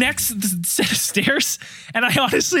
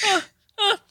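high strained whimper; small pained grunts on each step; imitated straining whimper; 11 semitones higher than usual.

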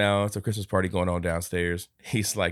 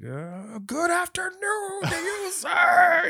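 mock posh greeting; much slower than usual. Scrooge insulting a passerby, high hammed-up posh voice. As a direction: sneer it with fake politeness.

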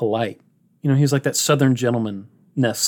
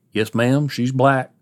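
imitating an unfazed, matter-of-fact answer; slower than usual. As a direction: state it evenly, like plain fact. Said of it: "the matter-of-factness about his character".

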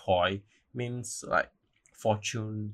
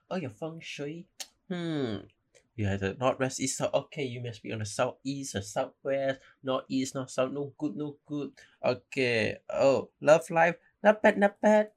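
higher-pitched fortune-teller with a put-on Asian uncle accent; Uncle Roger accent; 4 semitones higher than usual. Fortune-teller reading feng shui at the temple, mock uncle accent. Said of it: "now I'm sounding like Uncle Roger".

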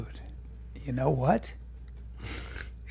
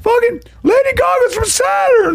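much higher shouted parody, slowing on the name; mocking impression of a friend; 14 semitones higher than usual. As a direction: squeal it out like a wild conspiracy rant. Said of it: "That's how you sound".

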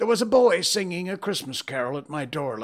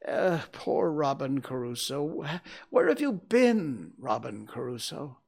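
raised, eager storytelling as Scrooge; between laughing and crying; 8 semitones higher, 5 dB louder than usual. A narrator's reading. Scrooge reliving Robin Crusoe's adventures, excited. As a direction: get carried away reliving the tale. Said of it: "between laughing and crying".

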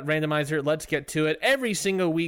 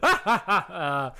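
maniacal laugh; 2 semitones higher than usual. Pretend. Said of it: "I don't like your maniacal laugh".

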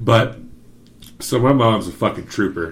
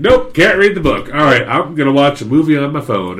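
louder and much higher, freaking out; panicked high exclaim; 5 semitones higher, 6 dB louder than usual. Retold or imitated. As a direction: blurt it like you're too high to cope. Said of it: "I was like".

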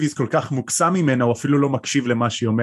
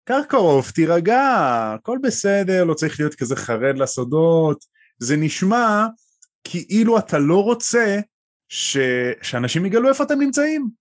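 put-on higher, amused old wizard; Dumbledore voice; 5 semitones higher than usual. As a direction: playfully reassure like Dumbledore. (דמבלדור משתעשע ומרגיע את קרקרוף)

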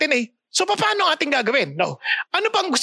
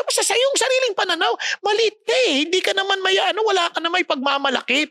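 a hint of Samuel; 6 semitones higher, faster than usual. Voicing Samuel rebuking Saul.

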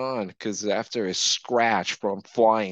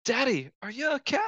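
put-on high, fast whiny child; mock child voice; 13 semitones higher, faster than usual. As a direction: squeak it like a kid.

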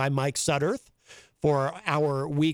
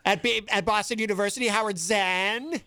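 John Hopwood impression; 5 semitones higher than usual. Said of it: "That's my impression of your impression of John Hopwood".

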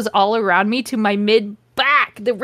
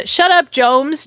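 loud and slow, higher; shouted; 5 semitones higher, 5 dB louder, slower than usual. Acted. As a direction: bark it out slowly. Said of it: "Draco's dad shouted".

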